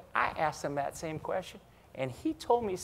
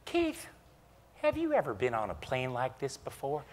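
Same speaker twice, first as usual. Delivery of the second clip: Chambers imitation; 5 dB quieter than usual. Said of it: "So there's the Chambers imitation".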